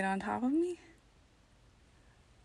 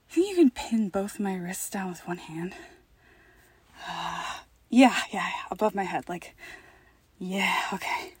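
usual speaking voice

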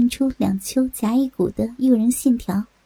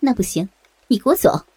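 scolding refusal with swooping pitch; a touch of haughty scolding; mild sharp rebuke; 2 semitones lower than usual. Acted. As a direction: order them off, lightly indignant. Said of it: "她娇斥一声".

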